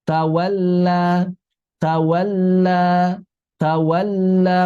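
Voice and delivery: 'Tawalla' with a slow, held double l; correct thin lam. Shown as a demonstration. Teacher models lam for students, correct measured recitation. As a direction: hold the l in 'Tawalla' lightly, then open. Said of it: "maka perhatikan ketebalannya".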